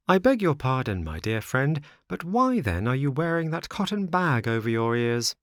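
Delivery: lightly voiced puppet, courteous and curious; a hint of an inquisitive puppet friend; politely probing marionette. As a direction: probe politely, pitched a little up. Pinocchio questions his friend.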